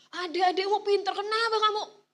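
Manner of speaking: high, loud mock praise; sarcastic parent. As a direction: sneer "smart, huh?" at the kid. Parent mocking child sarcastically.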